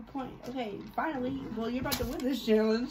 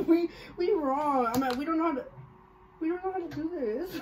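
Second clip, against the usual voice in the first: holding back giggles; laughing under the words; trying not to laugh; 4 semitones higher than usual. Real, not acted. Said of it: "we keep laughing".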